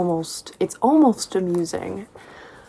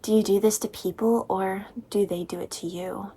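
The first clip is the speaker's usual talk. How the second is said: lightly voiced nervous man; mock nervous Christian; 3 dB quieter than usual. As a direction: ask it awkwardly nervous. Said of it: "He's like".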